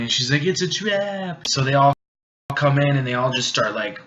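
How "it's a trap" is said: high, stretched-out warning cry; mock warning. Millie warning her would-be rescuer, hammed-up alarm. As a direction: draw the warning out high without shouting.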